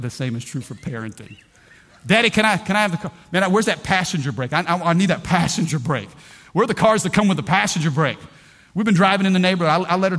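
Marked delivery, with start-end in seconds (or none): 2.1-8.2 eager teen then panicky dad, lightly voiced; lightly acted daughter and worried father; daughter and nervous dad. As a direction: plead for the keys, then fret.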